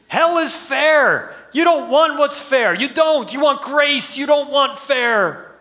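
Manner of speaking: high, loud, forceful declaration; preacher pressing the congregation, loud and high; emphatic preaching. Real, not acted. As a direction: drive the point home hard.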